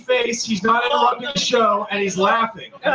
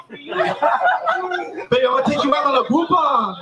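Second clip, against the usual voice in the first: put-on slow, laughing cheapskate boyfriend line; mock cheap boyfriend; 5 semitones higher, slower than usual. Comic mocks a man wooing his date, slowly and laughing. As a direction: drag it out like a proud cheapskate. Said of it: "We're saying you're really fucking sweeping her".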